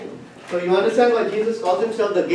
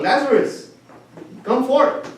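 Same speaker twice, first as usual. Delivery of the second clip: raised call into the tomb; 5 semitones higher, slower than usual. Retold or imitated. Jesus calling Lazarus out of the tomb, raised call. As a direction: call the dead man out, moderately raised. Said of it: "he yelled out".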